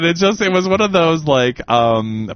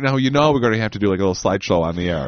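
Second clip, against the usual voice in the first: ordinary delivery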